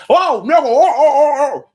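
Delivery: high, loud flustered "oh no"; mock flustered worker. Mocking the clerk caught out, high and flustered. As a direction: ham up the panicking clerk. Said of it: "You don't".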